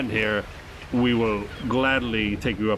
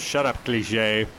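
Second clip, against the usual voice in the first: slow, weary put-down; grumbled shut up; slow grumpy retort; slower than usual. Acted. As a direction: drag it out, fed up. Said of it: "And he says".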